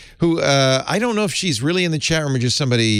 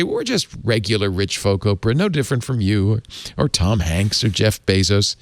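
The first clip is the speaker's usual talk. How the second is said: a hint of an Irish lilt, read at speaking pitch; bad Irish accent. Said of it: "I apologize for my bad Irish accent".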